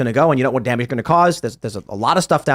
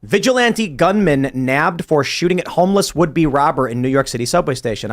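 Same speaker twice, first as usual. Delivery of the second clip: headline read. Shown as a demonstration. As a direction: read it out like a news anchor. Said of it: "I want you to analyze that headline".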